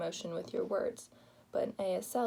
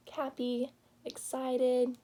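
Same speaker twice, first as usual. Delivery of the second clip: higher, louder cheerful burst; excited and happy; 4 semitones higher, 5 dB louder, slower than usual. Shown as a demonstration. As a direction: sell the joy, building to a cheer. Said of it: "You show the happy facial expression".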